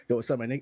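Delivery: "nigga" with a short, light ending; casual greeting, no emphasis on "nigga"; natural, in passing. Shown as a demonstration. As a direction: toss "nigga" off as a passing word. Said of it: "sounds so much more natural".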